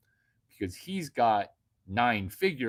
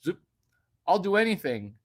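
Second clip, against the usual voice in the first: eager guy. Retold or imitated. Most guys answering her, hammed-up eagerness. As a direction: play a too-eager guy. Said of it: "Most guys would be like".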